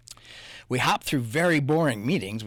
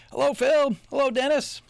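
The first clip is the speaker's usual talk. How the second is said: high squeaky little bug greeting, louder; tiny bug voices; 11 semitones higher, 6 dB louder than usual. Acted. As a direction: pipe it up like tiny bugs. Bugs greeting back in tiny voice.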